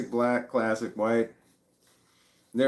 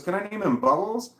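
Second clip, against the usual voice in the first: put-on hopeful higher kid voice; eager daughter; 10 semitones higher, 5 dB louder than usual. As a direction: ask it high and pleading. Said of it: "She goes".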